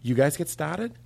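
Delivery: practice line in a Boston accent; Boston-accented coaching example. Shown as a demonstration. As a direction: drop the R in a Boston accent, as a question. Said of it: "let's practice our Boston accent".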